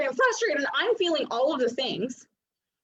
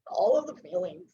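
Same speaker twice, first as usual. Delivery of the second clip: laughing. Retold or imitated. Mock overwhelmed, laughing.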